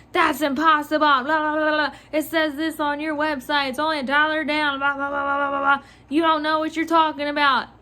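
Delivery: imitating an irate customer, babbling through the rant; hurried, mildly indignant mimicry; mock indignant customer. Clerk mimics customer disputing the down payment, indignant. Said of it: "This lady was not having it".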